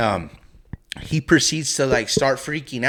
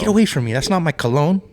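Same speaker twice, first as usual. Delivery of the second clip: irritated; 4 semitones higher, 3 dB louder, faster than usual. Retold or imitated. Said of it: "I'm just like".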